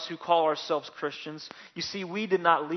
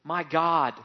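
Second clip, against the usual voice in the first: mock scream; 5 dB louder than usual. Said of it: "he screamed".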